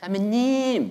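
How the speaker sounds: sweet charming coaxing voice. Acting out a sister who has lots of charm, mock-cute coaxing 자매님. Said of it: "그 자매님 버전으로".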